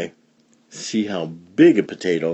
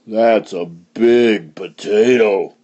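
slow, impressed farmer; lightly voiced farmer; slower than usual. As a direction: take your time marvelling as the farmer. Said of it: "said the farmer".

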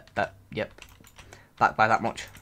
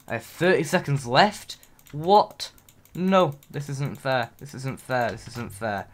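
shocked protest; 3 semitones higher than usual. Real, not acted. Learns time is nearly out.

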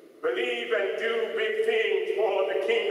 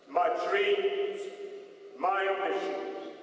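prayer. Real, not acted. Preacher leading the congregation in a prayer of relinquishment, praying. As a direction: pray it phrase by phrase with long pauses.

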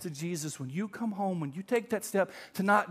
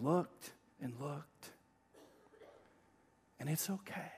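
soft, tender father's voice saying it's alright; a father quietly comforting his upset son; gentle fatherly reassurance; 2 semitones lower, 4 dB quieter than usual. Retold or imitated. Softly reassuring father comforting his son. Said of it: "it was something like".

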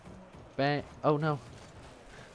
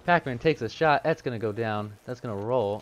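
esports caster. Acted. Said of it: "cast my own game while I'm playing in the casting voice".

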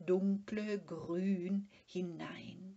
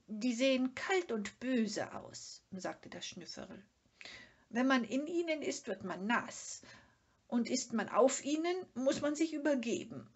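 high, whiny, fussy complaint; grumbling Sniff; 6 semitones higher, 4 dB louder than usual. A narrator's reading. Sniff complaining to Mumin about the sea, high and whiny. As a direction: sulk about the cold waves.

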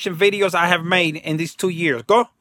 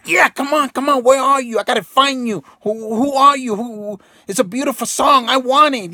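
calling out high and loud, longing for the song; eager searching; 7 semitones higher, 3 dB louder than usual. Retold or imitated. Talking to the universe while searching for a song, high eager calling. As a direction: reach out eagerly, voice lifted high.

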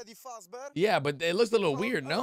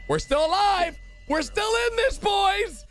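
triumphant shout; 11 semitones higher than usual. Real, not acted. Cheering survival in game.

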